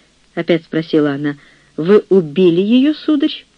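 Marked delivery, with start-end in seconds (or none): 1.8-3.4 shocked accusation. Acted. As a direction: demand it in alarm. Old woman accusing the chaplain.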